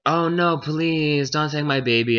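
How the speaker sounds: high-pitched mock begging; pleading. Mother begs the gnome to spare her baby, pleading.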